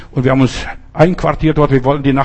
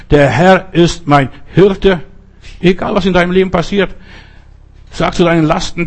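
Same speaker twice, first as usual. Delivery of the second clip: rising, rhythmic refrain preaching; fervent preaching; 3 semitones higher than usual. Acted. Pastor urging listeners to repeat the psalm, fervent preaching. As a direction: build the refrain to the congregation, line by line.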